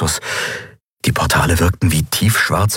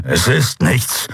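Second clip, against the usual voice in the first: slow, dismissive growl; slower than usual. A narrator's reading. Wounded Kero denying his wound to Endriel, growling. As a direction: growl it out slowly, brushing it off. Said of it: "knurrte er".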